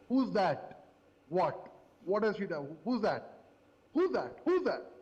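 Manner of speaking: mock bewildered questions, each dropping at the end; imitating baffled reaction. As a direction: fire off puzzled questions like a clueless crowd. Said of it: "That's exactly how they reacted".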